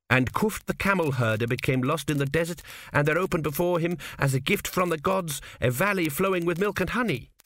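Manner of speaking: a hint of a hollow chant of scripture. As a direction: recite the legend emptily, as if it rings false. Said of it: "quoted Tepik in a hollow voice".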